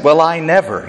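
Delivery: light Southern accent; a little Southern indignation in the vowels. Shown as a demonstration. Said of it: "put a little southern accent".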